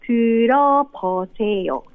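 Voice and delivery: 들어보세요 said tɯɾo-po-se-jo, stress on 어 rising; Korean model phrase. Shown as a demonstration. Teacher showing the radio host the line, clear model. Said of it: "聞いてみてください".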